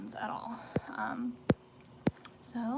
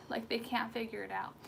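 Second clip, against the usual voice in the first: ordinary talk, nothing marked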